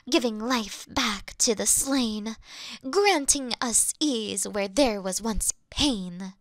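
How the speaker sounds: epic recitation. Acted. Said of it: "four of them go like".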